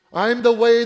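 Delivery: loud, lifted declaration; proclaiming. Acted. Jesus to his disciples, loud proclamation. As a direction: call it out boldly.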